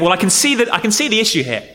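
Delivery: mildly agreeable inner voice nodding along; a hint of a sensible churchgoer; imagined reader's thought. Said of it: "you might well think".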